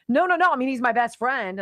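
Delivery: mocking the senator's panicked denial, loud and high; mock frantic denial. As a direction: protest too much, hammed up.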